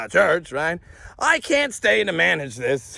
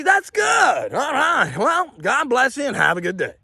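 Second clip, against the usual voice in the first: mock-polite send-off; 8 semitones higher than usual. Telling relatives God bless and good day, mock-polite. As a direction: sign off with exaggerated, high-pitched niceness.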